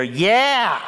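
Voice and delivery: high, loud imitated crowd "Yeah!"; mock crowd cheer. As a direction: cheer like the edited-in congregation. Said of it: "and then we'll hear".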